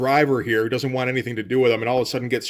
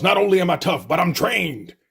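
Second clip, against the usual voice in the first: Mister T voice; 4 semitones higher than usual. Retold or imitated. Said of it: "I'm starting to remember the Mister T voice".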